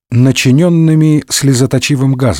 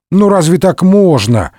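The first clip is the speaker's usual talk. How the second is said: reproachful; 6 semitones higher than usual. Acted. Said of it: "укоризненно пожурил".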